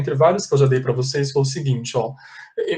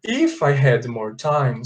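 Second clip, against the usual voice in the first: slow, clear example; slower than usual. Shown as a demonstration. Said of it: "Aí eu imagino uma realidade diferente".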